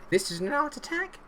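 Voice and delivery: high questioning TV presenter voice; Neil Buchanan impression. Streamer imitates Neil Buchanan announcing his team's creativity. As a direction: ask it like a kids' TV art host. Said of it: "Neil Buchanan's back in charge".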